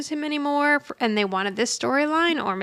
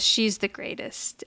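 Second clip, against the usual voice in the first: whispering; 5 dB quieter, slower than usual. Retold or imitated. Tender line, slow, whispery.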